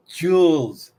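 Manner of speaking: "Jules" drawn out, starting with a J; British-style pronunciation. Retold or imitated. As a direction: mimic their "Jules", J at the front. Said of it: "they say joules".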